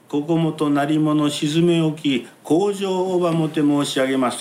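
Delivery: kabuki declamation. Shown as a demonstration. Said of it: "とかでやるんですよ".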